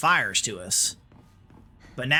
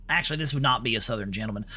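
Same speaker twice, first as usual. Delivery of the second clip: brisk put-on Texan accent; 3 semitones lower, faster than usual. Shown as a demonstration. Streamer correcting himself on his accent, Texan accent. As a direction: talk fast like a Texan. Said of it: "Talking like this is more like".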